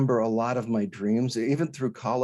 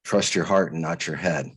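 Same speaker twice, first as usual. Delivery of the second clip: lower, faintly patronizing retold voice; condescending voice; 4 semitones lower than usual. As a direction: quote a mildly condescending voice, pitched down. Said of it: "just the same voice again".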